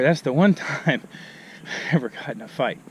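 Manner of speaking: out of breath from climbing. Real, not acted. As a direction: talk while breathless on a climb. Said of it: "I'm a lot of breath climbing the hill".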